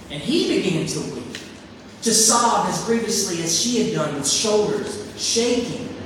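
earnest, expressive storytelling read; preacher reading a short story aloud; story narration. A narrator's reading. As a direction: read the parable to the congregation with feeling. Reads The Rag Man story aloud.

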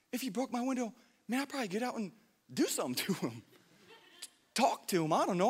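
soft, half-laughing confession of anger; hushed confession. Retold or imitated. Preacher confessing he'd have fought the old man, hushed. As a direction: keep it soft and sheepish.

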